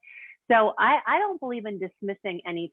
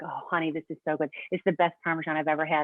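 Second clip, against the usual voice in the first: lightly voiced husband gushing over dinner; mimicking sweet husband; 3 semitones lower, faster than usual. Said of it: "sweet David is like".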